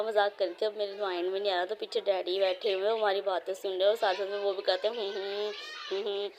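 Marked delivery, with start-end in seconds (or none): 4.9-6.3 soft, closed-mouth hmm hmm of agreement; imitating dad's hums. Daughter mimics dad humming along behind her, soft hums. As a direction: hum along quietly like a listening father. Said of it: "वो यूँ करते हैं".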